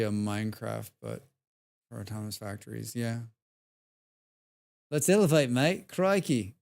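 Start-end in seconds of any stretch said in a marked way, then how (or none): 4.9-6.5 put-on light Australian accent, a bit higher and louder; mock Aussie accent. Streamer parroting the game's Aussie announcer in an Australian accent. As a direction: echo the game's Aussie voice with a cheeky Australian twang. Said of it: "weird hearing Aussie accents in games".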